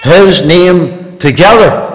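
slow, weighty repeat; repeating the text slowly; slow emphatic. Shown as a demonstration. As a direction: lean on each word. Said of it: "slow emphatic repeat".

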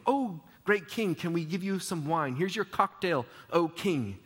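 mocking. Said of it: "They're mocking him".

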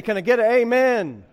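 loud preacher's call for an amen; Southern preacher. Retold or imitated. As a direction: call out to the congregation like a revival preacher. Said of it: "what does he say?".

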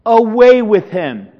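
loud, drawn-out mob demand; angry crowd cry. Retold or imitated. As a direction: imitate an angry crowd calling out. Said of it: "They cried out angrily".

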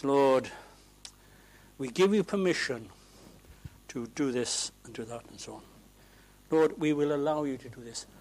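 a hint of a self-important pray-er, quick; mocking a pompous prayer. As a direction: lightly parody the pulpit man's prayer. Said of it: "Oh, please don't say that".

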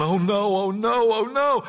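building hammed-up panic; mock dismay. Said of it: "you might be going".

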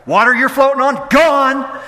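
excited punchy delivery; animated. Real, not acted. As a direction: paint it like a vanishing miracle. Vivid animated storytelling.

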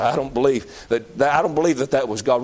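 lightly voiced stubborn unbeliever; mock skeptic. Preacher voicing a skeptic who won't believe, low grumble.

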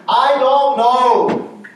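drawn-out pulpit exclamation; emphatic admission. Real, not acted. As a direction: stretch out each word in emphatic confession. Preacher's emphatic admission of not knowing.

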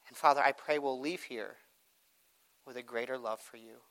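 hushed, earnest prayer voice. Acted. Opening prayer before sermon.

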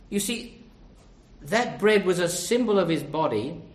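ordinary delivery

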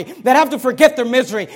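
usual speaking voice

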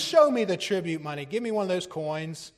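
loud, sudden retold command, easing off after; harsh demand. Preacher quoting Jesus to religious hypocrites, harsh. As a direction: hit the first demand hard, as if confronting fakers. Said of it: "he was harsh".

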